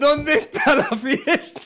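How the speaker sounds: Cádiz party voice. Acted. Mock Cádiz local voice.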